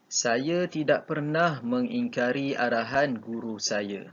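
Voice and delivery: careful model reading, "pernah" given prominence; model negation intonation. Shown as a demonstration. Teacher modelling a negative sentence for pupils, model intonation. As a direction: read out with weight on "tidak pernah", settling down on "saya". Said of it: "itu adalah intonasi yang betul".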